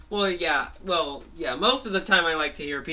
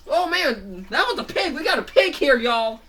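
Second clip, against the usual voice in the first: very high, louder hype; rally everyone to see; excited cartoon townsman; hyped onlooker; 9 semitones higher, 5 dB louder than usual. Man hypes the pig.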